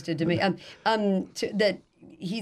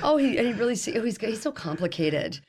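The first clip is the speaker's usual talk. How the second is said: mock swooning; 3 semitones higher than usual. Imagines herself swooning over ex's comment.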